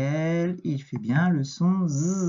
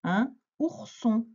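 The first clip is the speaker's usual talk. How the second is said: slow, higher repeat at normal volume; measured dictation; 4 semitones higher, slower than usual. Shown as a demonstration. Teacher repeating a word for a pupil, measured dictation. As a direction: repeat it slowly without pushing the volume.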